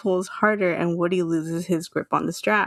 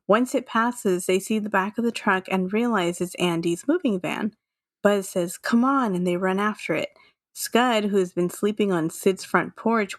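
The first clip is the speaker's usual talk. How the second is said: scene narration. A narrator's reading. Podcast host reads a Toy Story chase scene, narrating. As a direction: evenly read movie scene summary.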